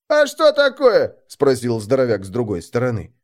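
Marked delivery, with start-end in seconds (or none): 0.1-1.2 high, slow, louder question; puzzled lug, stretching the words out; dim big lug. A narrator's reading. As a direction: call out a dull-witted question. Dim burly man asks from aside.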